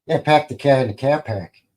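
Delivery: self-mocking, half-hearted Boston accent; bad Boston accent. Streamer admits a terrible Boston accent attempt. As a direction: pack the car said as a lazy Boston joke. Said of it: "It's the worst Bostonian accent ever".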